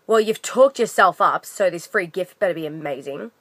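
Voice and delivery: lightly mock the woman's snippy put-down; snide customer quote. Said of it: "This is literally how she said it to me".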